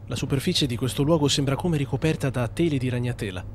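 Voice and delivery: low, hushed documentary read; dramatic narration. Acted. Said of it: "lo dico in video che fa più effetto".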